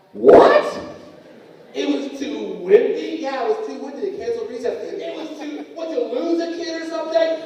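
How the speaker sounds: loud, high, incredulous outburst; outraged disbelief. Acted. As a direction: explode in comic disbelief at the absurd excuse. Acted outrage at cancelled recess.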